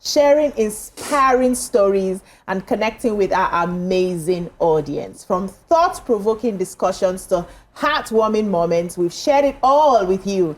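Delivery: upbeat presenter's anniversary intro; TV show opening. Acted. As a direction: welcome viewers with a lilting, celebratory read. Presenter reads the show's opening.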